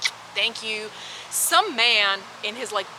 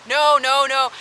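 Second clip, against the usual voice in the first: firm refusal; 5 semitones higher, 9 dB louder, slower than usual. Retold or imitated. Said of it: "And I was like".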